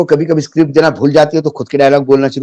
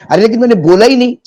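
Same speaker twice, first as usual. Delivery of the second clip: higher, exasperated denial; indignant protest; 8 semitones higher, faster than usual. Retold or imitated. Rahul Gandhi protesting to the Election Commission, indignant and higher. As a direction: protest your innocence, baffled.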